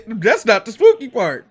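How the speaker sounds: laughing, loud and high; bursting out laughing in character; laughing mock protest.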